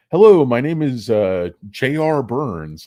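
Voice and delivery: mock Russian accent greeting; a light, hammed-up Russian accent. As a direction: scam caller with a Russian accent. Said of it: "A strong, like, Russian accent".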